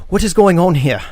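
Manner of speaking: loud, high, sharp demand; commanding sheriff bursting in on the fight; demanding shout. Acted. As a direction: call out to take charge of the scene. Sheriff arrives demanding answers.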